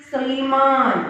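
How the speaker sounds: ശ്രീമാൻ with both long vowels held; model pronunciation. Shown as a demonstration. Teacher asks class to pronounce ശ്രീമാൻ along, careful drawn-out syllables. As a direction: lead learners in saying ശ്രീമാൻ carefully. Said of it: "pronounce with me".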